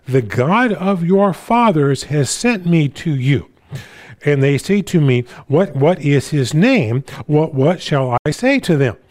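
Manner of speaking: deliberate public reading with lifted phrases; scripture reading. Acted. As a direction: read scripture aloud, weighting key words. Reads scripture aloud to congregation.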